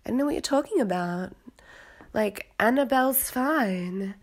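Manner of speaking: innocent denial. Retold or imitated. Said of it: "and be like".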